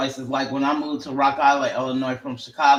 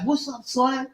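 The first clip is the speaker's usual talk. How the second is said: Chicago greeting; 8 semitones higher than usual. Retold or imitated. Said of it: "I don't know if he's nice or being nasty".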